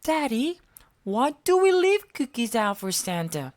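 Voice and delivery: small eager monster voice; Elmo voice. A narrator's reading. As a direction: squeak it up like Elmo. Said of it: "Elmo asked".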